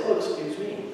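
"Oh, excuse me" offered lightly, stepping aside; gracious "Oh" rising, then an easy "excuse me"; polite, yielding. Shown as a demonstration. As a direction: let them go past with a courteous "Oh, excuse me". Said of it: "and allow them to go past".

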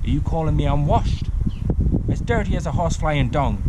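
a touch of outrage; indignant giant. Acted. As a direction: act offended, calling across the sea. Giants trading insults across the sea.

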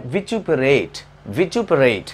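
"vituperated" said in full as vi-CHU-pe-rate; "vituperated" with a CHU sound in the middle; full pronunciation. Shown as a demonstration. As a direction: model the whole word "vituperated" slowly. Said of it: "इसको यही pronounce करते हैं".

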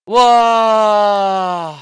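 loud drawn-out wow; amazed shout. Real, not acted. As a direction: shout it in disbelief. Big gacha pull reaction.

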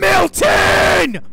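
high, loud shout of a name; startled shout. Real, not acted. Gamer spotting Milton, shouting high and loud. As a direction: yell the villain's name in shock. Enemy appears suddenly.

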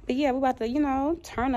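talking around a retainer; slightly lisped retainer speech; wearing a retainer. Real, not acted. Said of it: "I do have my retainer in, so I'm talking funny".

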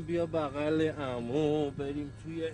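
put-on slow, gentle coaxing to a little kid; coaxing a child. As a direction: lure the child in kindly, very slowly. Captain coaxing child to cockpit.

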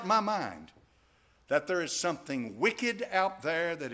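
loud, high, ringing preacher's call; full-force preaching. Acted. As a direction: preach it hard to the whole congregation.

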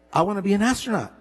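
put-on a boy repeating his dream to his doubting father; insistent repeat. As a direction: say it again with stubborn eagerness.

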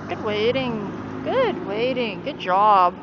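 loud, emphatic praise for the dog. Real, not acted. Praising the dog after sit.

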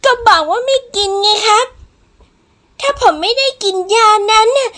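high, loud, desperate protest; indignant, escalating outburst; angry refusal. Acted. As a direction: shout back that you won't give in. Patient angrily refusing the new medicine.

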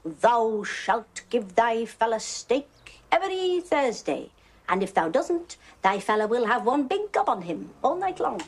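slow, lightly hammed-up commandment voice; mock Moses. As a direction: pronounce it like scripture, half joking. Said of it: "Moses declared it".

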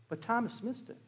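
very soft, confiding refrain; hushed aside. Real, not acted. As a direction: drop to a near whisper for effect.

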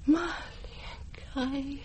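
slow, soft crying name; tearful recognition. Acted. To her granddaughter at last recognized, slow tearful cry. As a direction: let the name break into tears.

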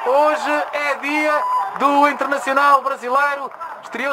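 high, drawn-out excited praise; explosive goal commentary. Real, not acted. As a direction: hail the scorer at full voice. Celebrating Alexandre's goal.

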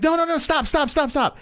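high-pitched mock pleading; retold begging. Girl begging him not to hit her boyfriend, imitated high plea. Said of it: "they're begging me to stop".

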